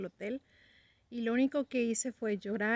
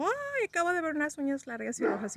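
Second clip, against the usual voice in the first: "Ay" up high, the rest voiced and a bit louder; startled; 5 semitones higher, 3 dB louder than usual. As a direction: blurt out the vision, shaken. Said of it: "estaba muy asustado".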